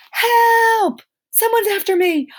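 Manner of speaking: high, loud cry for help; panicked mock shout for help; yelling. Shown as a demonstration. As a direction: shout it like you're being chased. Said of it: "you should be yelling it".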